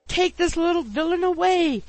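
very high, loud plea; agonized cry. A narrator's reading. Pickwick pummelled by the landlady's son, agonized. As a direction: cry out as if under attack. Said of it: "said the agonized Mister Pickwick".

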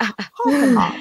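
part-British Boston "Hoff and Hoff"; old Boston accent. Retold or imitated. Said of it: "it's, like, sort of like".

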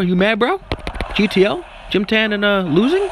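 a hint of Jersey Shore accent, mocking the angry racers; Jersey Shore bro. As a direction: tease them like a Jersey Shore guy. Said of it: "a guy from Jersey Shore".

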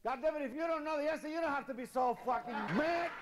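high, fast, indignant whine; whiny beaten lion. Acted. Beaten lion complains to the elephant in a high, fast, indignant whine. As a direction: sulk like a bully who lost.

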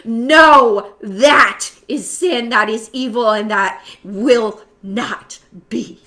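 loud, full-force preaching prayer; impassioned, booming prayer; fervent prayer. Real, not acted. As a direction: pray it out loud to the whole room.

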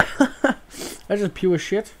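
very slow, high, stretched complaint; drawn-out whine. Real, not acted. Gamer moaning at his wrestling game, slow high whine. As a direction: drag every word out in disgust. Game frustration after laugh.

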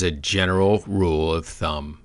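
"general" spoken as if in all caps; weighty, deliberate emphasis on "general"; stress on GENERAL. Real, not acted. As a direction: set "general rule of thumb" apart word by word. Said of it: "Notice the all caps?".

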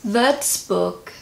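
Würzburg with a German ü, ending like "book"; attempted German pronunciation. Shown as a demonstration. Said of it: "I don't think that sounded too bad".

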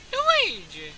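sudden high yell; shout. Real, not acted. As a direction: yell the name out. Yelling at screen in game.

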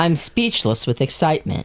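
understated mock excitement; deadpan excitement. Player insists they truly are excited, deadpan. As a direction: profess excitement in an everyday, unexcited voice. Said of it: "You sound so excited".

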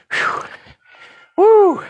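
puffing out a breath; blowing out hard; breathless whew. Real, not acted. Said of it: "just like this".

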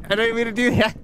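a hint of a robot voice. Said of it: "I went to do my robot voice".

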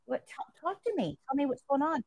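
quietly asking a crying patient to open up; hushed and gentle, drawing him out; soft coaxing. Retold or imitated. Nurse softly urging a tearful patient to talk, hushed. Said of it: "And I'm like".

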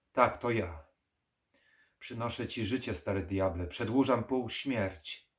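put-on loud, insistent young necromancer; eager necromancer. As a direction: press the offer on the old devil. Narrator voices Dragosani.

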